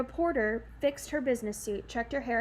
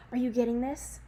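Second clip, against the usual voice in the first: panicking; 4 dB louder than usual. Acted.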